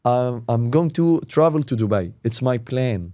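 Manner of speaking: very slow, carefully articulated English; slow model sentence. Shown as a demonstration. Teacher modelling an example for students, very slow. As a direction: give the example word by word. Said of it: "يبقى I'm going to infinitive".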